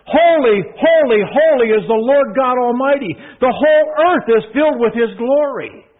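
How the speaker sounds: high, loud, ringing proclamation; calling out. Shown as a demonstration. Seraphim calling to one another, loud and high. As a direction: cry it out across the throne room. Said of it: "Say it like you mean it".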